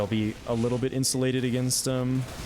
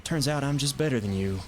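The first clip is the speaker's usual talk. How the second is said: lightly put-on Southern drawl; playful Southern gloating; southern accent; 3 semitones higher, slower than usual. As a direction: taunt in a mock Southern US accent. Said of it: "why do I always do the southern accent".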